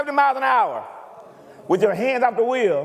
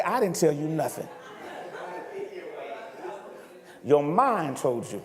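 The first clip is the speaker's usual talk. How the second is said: low voice of the Lord; 6 semitones lower, 7 dB quieter than usual. Retold or imitated.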